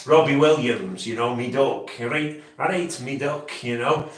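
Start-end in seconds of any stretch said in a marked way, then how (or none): 1.3-3.5 a hint of a Staffordshire Potteries accent; mild Staffordshire accent, lightly put on. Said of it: "the Staffordshire accent".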